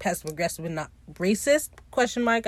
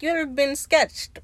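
higher-pitched teasing question; mock coy question; 7 semitones higher than usual. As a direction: imitate a comeback with raised pitch. Retold flirty comeback to a rival.

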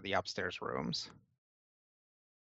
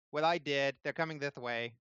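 put-on higher, quick lisping kid voice; little tiefling boy; 4 semitones higher than usual. Tiefling boy warning Pixo of men coming, lisping kid voice. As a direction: play an eager little boy with a lisp. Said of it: "a little tiefling boy runs in".

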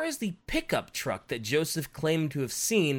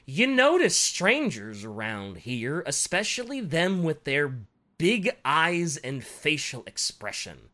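put-on southern accent. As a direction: quote a local witness in a southern accent. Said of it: "Why are they so southern?".

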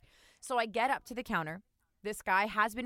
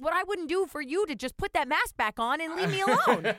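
high, loud retort through laughter; imagined sarcastic comeback; laughing mock retort; 9 semitones higher, 6 dB louder than usual. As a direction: fire back half-laughing.

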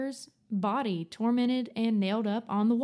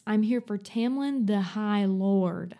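sassy; slower than usual. Retold or imitated.

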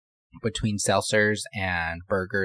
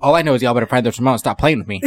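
loud, fast scolding; angry bossy rant; 5 dB louder, faster than usual. Retold or imitated. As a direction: scold them quickly and loudly. Ike threatening the group.

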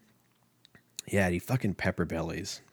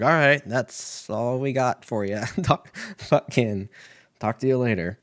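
mock kidnapper; 3 semitones higher, 4 dB louder than usual. Kidnappers voiced, put-on.

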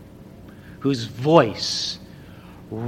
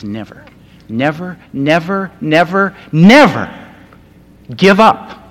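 building to a shout; 3 semitones higher, 9 dB louder than usual. Retold or imitated. Preacher voicing Jesus urging believers never to quit, building to a shout.

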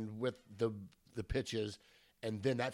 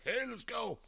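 whispered; 11 semitones higher than usual. Retold or imitated. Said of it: "going like".

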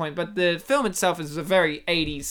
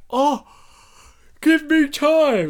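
higher, drawn-out mock plea for time; exasperated plea; 6 semitones higher, 5 dB louder, slower than usual. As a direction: imitate a flustered man, louder and slower. Acts out stressed contestant under pressure.

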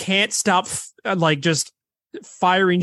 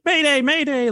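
mild mock yell; 8 semitones higher than usual. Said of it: "he starts yelling, like".

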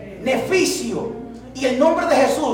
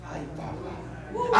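shocked gasp; 9 semitones higher, 11 dB quieter, much slower than usual. Real, not acted. Shocked reaction to God's rebuke.

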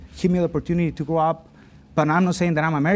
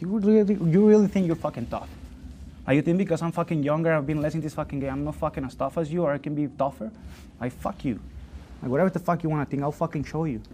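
defiant. Retold or imitated. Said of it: "I was thinking of this".

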